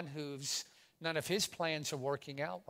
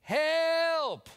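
high desperate shout for help; yelling for help; 12 semitones higher, 8 dB louder than usual. Pretend. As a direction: cry out from a prison cell. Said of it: "I'd be yelling".

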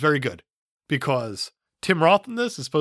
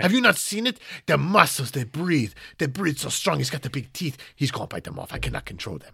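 mock French director marvelling, then helpless; Louis Leterrier; 4 dB quieter than usual. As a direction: plead helplessly in a put-on French accent. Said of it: "You do a way better French accent".

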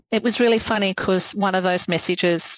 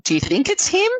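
higher-pitched, incredulous question; hopeful disbelief; 9 semitones higher than usual. Retold or imitated. Woman showing husband the photograph, hopeful disbelief. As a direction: act out wondering aloud, pitch lifted.

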